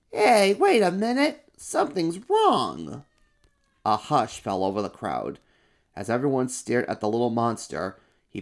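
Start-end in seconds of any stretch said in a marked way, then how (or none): 0.1-3.0 high, loud shout, then slower; loud call out. Acted. First monster shouts to stop the parade. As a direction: call out over the crowd. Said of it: "called out in a very loud voice".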